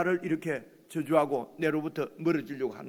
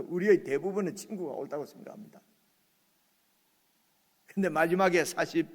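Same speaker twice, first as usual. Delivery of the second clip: ordinary talk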